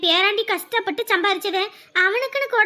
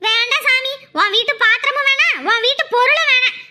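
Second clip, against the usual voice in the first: angry refusal; 2 semitones higher than usual. Acted. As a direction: throw it back at her, fed up. Sister-in-law storms off in quarrel.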